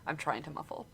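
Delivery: talking through hiccups; hiccuping while speaking. Real, not acted. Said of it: "I have the hiccups".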